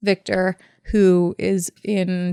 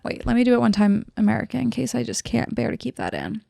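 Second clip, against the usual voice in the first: ordinary delivery, nothing marked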